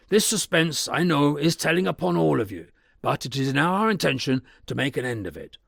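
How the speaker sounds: a lawyer taking charge of a frightened house; lawyer's resolute address. Acted.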